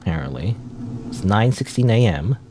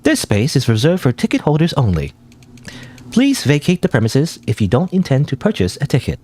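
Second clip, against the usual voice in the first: even, flat announcement read; like a machine reading a notice; automated voice; 4 semitones higher than usual. Acted. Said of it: "oh, automated voice".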